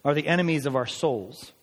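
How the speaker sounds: slow, weighty quotation; solemn slow reading of a commentator; slow quote read. Real, not acted. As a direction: lay each phrase down deliberately. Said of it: "And he said this".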